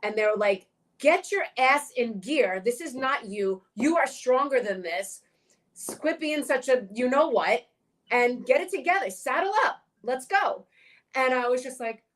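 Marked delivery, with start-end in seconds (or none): 1.0-10.7 tough love. Retold or imitated. Friends' tough pep talk retold.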